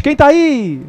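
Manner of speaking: put-on child calling out. Boy calls across the valley to the unseen voice. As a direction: call out like a curious kid. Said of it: "ele grita novamente".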